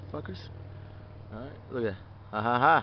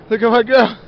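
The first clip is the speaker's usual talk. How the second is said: pet voice; 5 semitones higher, 10 dB louder than usual. Real, not acted. Cooing at the dog on hike.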